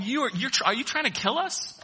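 panicked sailors. Retold or imitated. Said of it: "they're going".

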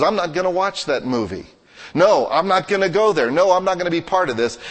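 mildly acted defiant stand; defiant refusal.

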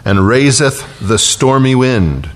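slow, measured Psalm reading; scripture reading. Acted. Preacher reading Psalm 107 to the congregation, slow and solemn.

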